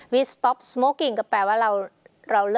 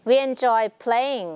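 slow example reading; 3 semitones higher, much slower than usual. Shown as a demonstration. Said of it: "teacher reads example slowly".

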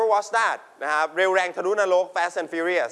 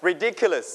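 "ridiculous" with the weight on "dic"; stress on second syllable. Shown as a demonstration. Teacher models the word after explaining, stressing "dic" in "ridiculous". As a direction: punch the "dic" inside "ridiculous". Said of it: "You stress on dick".

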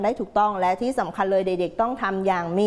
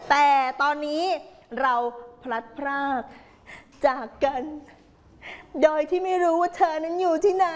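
playful hammed-up tale of parting, rising higher; mock melodrama; 4 semitones higher than usual. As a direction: play at being tragically separated lovers. Teacher playfully acts out separated pairs. (แกล้งเล่าแบบละครรักพลัดพราก)

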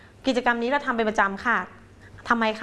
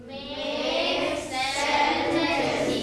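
very slow Make sentences; slow model; much slower than usual. Shown as a demonstration. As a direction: draw Make sentences out for the class. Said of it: "ฟังนะคะ".

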